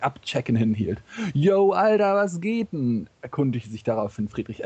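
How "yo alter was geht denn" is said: high, hyped buddy hail; bro greeting. Acted. Engels returning Marx's fist-bump greeting, hyped. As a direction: pitch it up like an excited homeboy.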